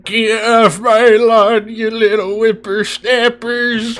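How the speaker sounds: put-on old prospector. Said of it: "when you get old".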